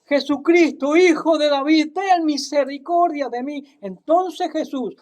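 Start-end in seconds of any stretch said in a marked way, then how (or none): 0.1-3.6 crying out more. Acted. Bartimeo crying out despite the crowd's rebukes, urgent plea. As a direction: beg Jesus for mercy with full voice. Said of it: "pero él clamaba mucho más".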